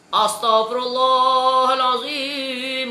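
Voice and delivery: slow, drawn-out chanted Astagfirullahalazim like an imam over the speaker; hammed-up imitation of a loud imam chanting; mock loud imam zikir. Mocking imam's drawn-out loud zikir. (zikir imam yang dipanjangkan dan dikuatkan secara olok-olok)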